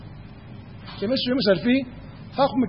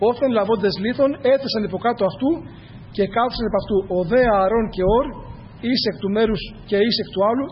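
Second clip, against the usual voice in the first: scripture reading. Acted. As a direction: read the verses with solemn care. Reads scripture aloud.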